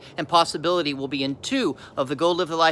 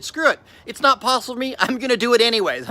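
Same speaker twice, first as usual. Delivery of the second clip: retold desperate resolve, pitched up; desperate defiance; 4 semitones higher than usual. Speaker recalls resolving to try despite the odds, desperate defiance. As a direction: throw caution aside, higher voice. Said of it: "so desperate for a different life".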